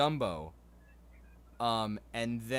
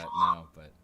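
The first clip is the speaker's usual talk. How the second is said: quacking like a duck; 8 semitones lower than usual. Shown as a demonstration. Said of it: "I did pick that up from my granddad".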